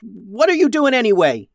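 high, loud scolding; rising, indignant captain's yell; exasperated yell. A narrator's reading. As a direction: rant at a dithering crewmate. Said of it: "Max yelled".

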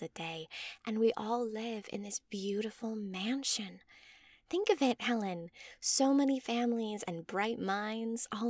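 lightly voiced mother, lilting upward in eager testimony; a touch of breathless zeal, pitch lifting on the selling points; gushing devoted mother. Mother urging Helen to join the House of Nod, gushing lightly.

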